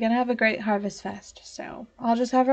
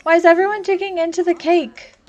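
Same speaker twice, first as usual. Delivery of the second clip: higher, louder, fast disbelieving rant; exasperated outburst; 6 semitones higher, 7 dB louder than usual. Real, not acted. Player baffled that everyone eats cake, exasperated outburst. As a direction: rattle it off in baffled outrage. Sims all eating cake.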